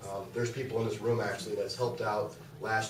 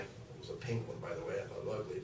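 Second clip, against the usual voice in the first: ordinary talk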